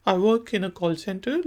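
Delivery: slow, clear sentence for learners to repeat; slow model line. Shown as a demonstration. Teacher voices the girl's reply slowly for the class. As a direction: lay each word down slowly. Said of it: "लड़की कहती है कि".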